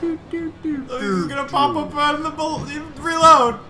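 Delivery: high, urgent call rising to a shout; urgent, high-pitched warning; alarmed call. Real, not acted. Warning a teammate to reload, alarmed call.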